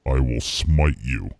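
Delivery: God voice. Pretend. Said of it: "I am God".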